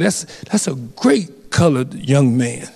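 lightly voiced old man, slow, saying "colored"; a hint of an old-timer's slow praise; old man quote. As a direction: gently imitate the elderly officer, slow and measured. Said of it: "He said".

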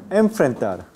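Enfrentar with a plain alveolar n before the f; wrong pronunciation demo. Shown as a demonstration. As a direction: show the mistake in Enfrentar, n kept at the teeth ridge. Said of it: "no se dice enfrentar".

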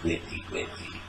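breathless whisper, obsessing; whispered brooding. Acted. Jealous man replaying her friend's name, whispering. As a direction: hiss the name over and over to yourself.

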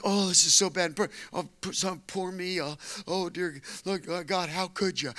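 mock self-pity. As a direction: play up the self-pity, half-joking. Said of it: "you know, like".

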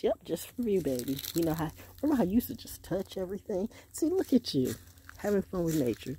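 lightly voiced doting parent, pitch lifted; a hint of an indulgent father; imitating fond Daddy. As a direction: coo like a proud dad. Voices Daddy talking to his baby.

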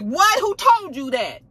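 high, loud, drawn-out disbelief; mock-stunned outburst; shocked. Acted shocked reaction to news.

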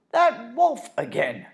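high, loud alarmed cry; alarmed exclaim. Acted. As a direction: shout it in alarm. Betsy spots the wolf.

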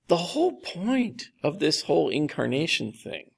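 a touch of exasperation, spelling out the point; a little exasperated. Retold or imitated. Jesus explaining the incarnation to disciples, a little exasperated. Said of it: "Jesus seems a little exasperated here".

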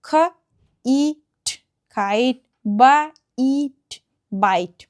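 খাইট and বাইট sounded out slowly in parts, then blended; long I. Shown as a demonstration. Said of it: "এটাকে long করে দেবে". (খাইট, বাইট ধ্বনি ভেঙে উচ্চারণ)

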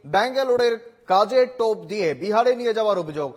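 punchy headline delivery with falling phrase ends; emphatic TV news bulletin read. Acted. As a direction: read out the top story as a news anchor. Anchor reads the headlines.

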